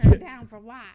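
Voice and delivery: loud hype chant, shouted out; rapper shout. Retold or imitated. Hyping a rapper's entrance with a loud shouted chant. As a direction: belt it like a party hype man.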